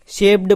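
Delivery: शेप्ड wrongly ending in a voiced D sound; wrong pronunciation. Shown as a demonstration. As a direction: say शेप्ड with ड at the end, as "shep-d". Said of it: "कुछ लोग इसका गलत उच्चारण करते हैं". (शेप्ड के अंत में गलती से ड की आवाज़)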